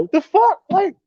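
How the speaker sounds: high, startled outburst; hammed-up startled cry; mock shock. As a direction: act shocked at the hypocrisy. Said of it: "They like".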